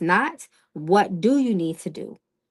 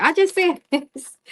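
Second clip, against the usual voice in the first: laughing; 9 semitones higher, 4 dB louder than usual. Real, not acted. Laughs at the card repeating.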